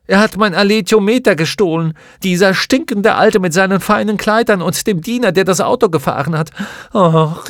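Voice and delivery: loud, high, tearful outrage at the thief; sobbing furiously. A narrator's reading. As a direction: rage through heavy sobs. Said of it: "Und sie schluchzte so heftig".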